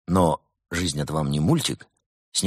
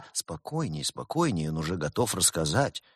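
much softer, soothing hush; hushed good cop; 2 semitones lower, 8 dB quieter than usual. A narrator's reading. Good cop hushes the bad cop softly. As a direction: settle the room gently.

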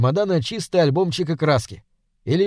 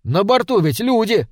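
indignant cry; 7 semitones higher than usual. A narrator's reading. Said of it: "крикнул Толя Колесникову".

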